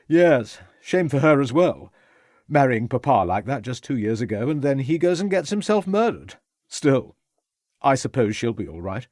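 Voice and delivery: put-on brash young gentleman, a bit tipsy; young toff voice. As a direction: careless upper-class young man.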